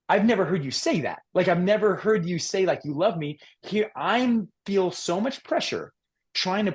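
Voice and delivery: a hint of a hurt teenage son; lightly voiced son. Son telling his dad he never heard love, mild plea.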